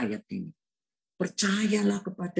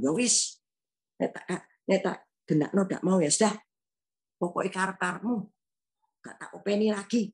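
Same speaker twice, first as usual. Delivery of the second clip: angry retort; 2 semitones higher, faster than usual. Retold or imitated. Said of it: "Nah, ngamuk saya".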